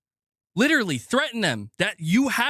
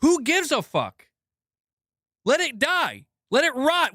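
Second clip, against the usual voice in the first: higher, careless mock gamer voice; mocking imitation; 7 semitones higher than usual. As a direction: mimic the shrugging crowd with contempt. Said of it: "everybody's just out here being like".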